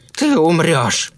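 high, drawn-out cry of fury; vengeful threat. A narrator's reading. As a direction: hurl a threat at the killer. Grieving woman attacks with scissors.

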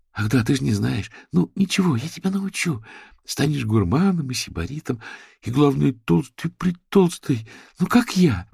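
high, lively doting voice; high doting promise. A narrator's reading. Manya promises the creature warmth and food. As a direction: promise treats like to a pet.

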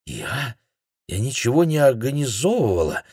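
stammered. A narrator's reading. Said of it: "пролепетала она".

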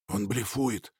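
low, soft aside; quiet. Acted. Alex quietly tells Nikita, soft and low. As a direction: murmur it so the enemy won't hear. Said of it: "тихо сказал Алекс".

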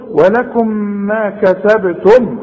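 slow, careful tajweed recitation of ما كسبتم with clear meem; Quran recitation demo. Shown as a demonstration. Teacher reciting to a student, slow clear tajweed. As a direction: recite it slowly, every letter shown. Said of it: "شوف".

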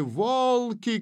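high-pitched cry of alarm; frightened cry. A narrator's reading. Женька crying out as Алла rushes to her, frightened cry. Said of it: "кричала та".

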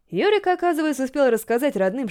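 ordinary delivery

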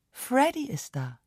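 softly, a gentle announcement; mild announcement. A narrator's reading. Aunt mildly telling sister that Freddy arrived. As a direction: say it mildly, no fuss. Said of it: "verkündete mild".

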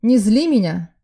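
loud, threatening bark; angry bark. A narrator's reading. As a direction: bark the warning in her face. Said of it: "рявкнул Тоха". (грозный рявк)

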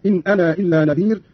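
final ā of أنا sounded before إلا; separated madd. Shown as a demonstration. Teacher demonstrating Qalun's madd, أنا with sounded alif. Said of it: "فيصير عنده وصلا مدا منفصلا".

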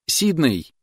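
high, loud shrill shriek; piercing shriek. A narrator's reading. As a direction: shriek the name in panic. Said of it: "пронзительно завизжала девушка".

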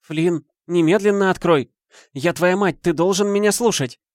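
high, loud commanding mother; mother's demand. A narrator's reading. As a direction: order the son to open now. Мать требует открыть дверь. (требовательный крик матери)

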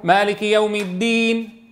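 Quranic recitation of "مالك يوم الدين" with rounded lips on the final نون; slow recitation, lips pushed forward after "الدين"; recited with lips rounded. Shown as a demonstration. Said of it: "تقف على الدين فتقول".

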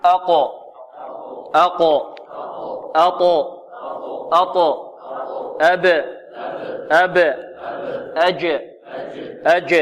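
short isolated syllables, each ending in a bouncing echo; crisp call-and-repeat drill, pausing after each; qalqala drill. Shown as a demonstration. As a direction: pop the final consonant of each syllable with a tiny release. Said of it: "انطقوا معي".

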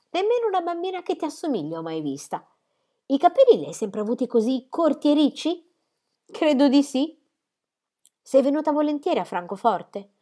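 curious and friendly; lightly voiced young girl.

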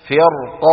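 فرق with thick ر and a vowelless final ق; heavy ra. Shown as a demonstration. Teacher repeats the model word, heavy ra. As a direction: say فرق heavy, stopping hard on ق. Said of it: "مفخمة قولا واحدا".

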